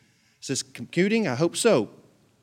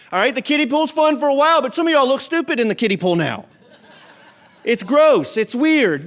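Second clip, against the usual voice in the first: laughing tease; 7 semitones higher, 5 dB louder than usual. Real, not acted. Teasing the kiddie-pool crowd.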